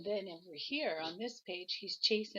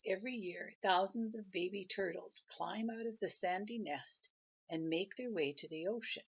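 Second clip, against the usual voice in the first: gentle storybook read-aloud; grandma reading a picture book to her grandchild; reading aloud to a child. A narrator's reading.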